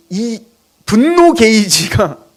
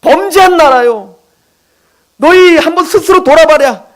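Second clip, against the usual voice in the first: God crying out to his people, slow and higher; a touch of a grieving cry, rising and louder; lament; 4 semitones higher, 4 dB louder than usual. Acted. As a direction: voice God's anguished lament, building to a loud call. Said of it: "가슴을 찢으며 지금 절규하는 거예요".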